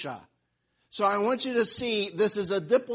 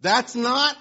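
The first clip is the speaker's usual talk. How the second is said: put-on protesting child; 3 semitones higher, 7 dB louder than usual. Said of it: "the younger kid says".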